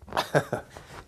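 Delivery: brief, soft, breath-only chuckle; short laugh. Real, not acted. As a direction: laugh lightly at your own thought. Laughs at own passing thought.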